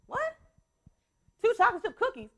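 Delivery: mock disbelief at the request; surprised mom. Mom repeats her son's early cookie request, surprised. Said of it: "And I say".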